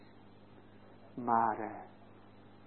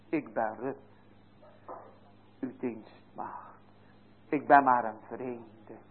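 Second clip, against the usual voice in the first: put-on soft, lowered voice of a humble servant girl; humble Ruth, hushed; 5 semitones lower, 8 dB quieter than usual. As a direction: say it like a humble servant girl, almost under your breath. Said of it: "Zo heeft ze uitgeroepen".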